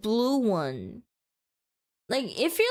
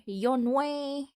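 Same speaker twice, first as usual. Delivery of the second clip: cartoon princess; 3 semitones higher, much slower than usual. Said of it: "Because I am a princess".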